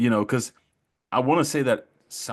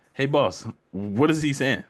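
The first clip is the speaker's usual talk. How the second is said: higher-pitched Southern drawl for a joke; deep Southern accent; 5 semitones higher than usual. Acted. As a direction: imitate a deep country Georgia accent. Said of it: "the guy with the really deep accent".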